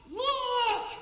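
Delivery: sudden loud, high warning cry; urgent shout. Retold or imitated. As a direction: yell it like a warning from above. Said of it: "I just heard a shout".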